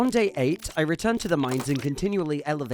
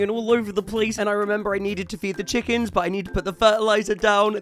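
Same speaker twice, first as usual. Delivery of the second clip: mock panic, higher and rushed-sounding; panicking; 3 semitones higher, 3 dB louder than usual. Gamer recounting too many seeds to plant, mock panicking. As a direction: play up being overwhelmed. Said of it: "I was panicking".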